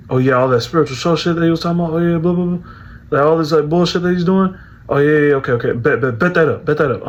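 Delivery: imitating someone brushing it all off angrily; retold angry dismissal. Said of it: "sounded kinda angry there".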